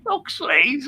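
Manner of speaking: cursing the band in mock despair, high and laughing; mock outraged laughing. Real, not acted. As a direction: half-shout through giggles.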